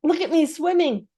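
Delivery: high squeaky joey voice; squeaky little Roo. A narrator's reading. Roo calling to everyone from the pool, squeaky and proud. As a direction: squeak it like a proud tiny kangaroo. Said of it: "still bubbling proudly".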